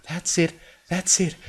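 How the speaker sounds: high, gentle coaxing voice. Acted. Coaxing a frightened bunny.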